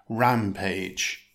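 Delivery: "rampage" stressed on RAM; careful teacher's demo of "rampage", RAM stressed; stress on first syllable. Shown as a demonstration. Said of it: "Stress the first syllable".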